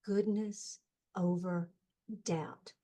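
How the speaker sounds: hushed, slow retold whisper easing into soft voice; imitating a gentle whispering voice. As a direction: whisper it tenderly, as a voice in the ear. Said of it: "this beautiful voice whispered in my ear very gently".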